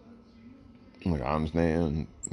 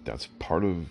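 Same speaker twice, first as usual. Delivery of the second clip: speaking through hiccups; hiccuping between words; 3 semitones higher than usual. Real, not acted. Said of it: "Excuse me, I got the hiccups".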